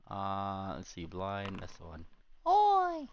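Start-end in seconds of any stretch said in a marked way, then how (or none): 2.5-3.1 high sharp shout; shouted call. Acted. Character calls out.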